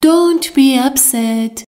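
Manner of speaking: slow, each word laid out clearly; slow model sentence. Shown as a demonstration. Teacher to Persian learners, slow and clear. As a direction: spell it out slowly for learners. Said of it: "teacher repeats the model sentence".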